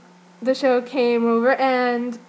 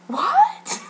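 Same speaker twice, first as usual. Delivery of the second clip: a much higher, louder confused what; startled what; 3 dB louder than usual. Retold or imitated. Jin hearing the dancers' joke, startled confused what. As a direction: blurt it, caught off guard. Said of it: "really surprised look on his face".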